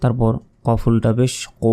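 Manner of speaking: heavy throaty কো; heavy pronunciation. Shown as a demonstration. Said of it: "এটা মোটাভাবে".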